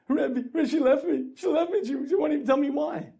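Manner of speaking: high, loud, desperate phone call; abandoned husband calling his rabbi in a panic; frantic plea. Acted. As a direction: beg the rabbi for help.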